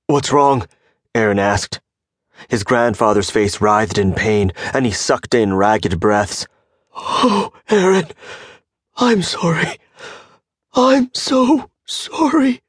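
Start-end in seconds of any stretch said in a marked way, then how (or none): 0.1-0.7 alarmed. A narrator's reading. Grandson sees grandfather dying. 6.9-12.6 high, slow, breaking apology; dying old man pleading sorry in anguish; anguished sorrow. A narrator's reading.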